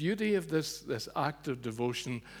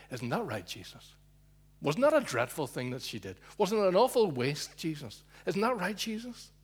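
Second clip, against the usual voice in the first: rising, higher wheedle; wheedling appeal; 4 semitones higher, 4 dB louder than usual. Acted. Guests looking to Jesus for agreement, wheedling. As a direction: coax Jesus onto their side.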